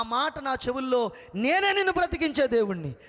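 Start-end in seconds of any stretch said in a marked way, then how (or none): 1.3-2.9 higher, louder, ringing divine declaration; echoing voice of God. Retold or imitated. God's voice echoing in the dying man's ears, loud and high. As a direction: call it out like an echo through a mic. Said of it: "ఈ మైకులో ఈ ఏకో పెడితే ఒక మాట పది మాటలు వినపడినట్లుగా".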